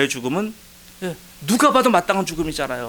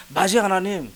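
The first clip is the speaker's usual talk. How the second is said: raised-pitch, eager prayer; retold joyful agreement; 5 semitones higher than usual. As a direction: reenact gladly owning up to God. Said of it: "얼마나 기쁜지". (기쁘게 인정하는 기도 재연)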